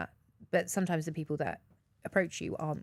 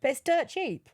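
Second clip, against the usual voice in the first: gleeful repeat; 6 semitones higher than usual. Real, not acted.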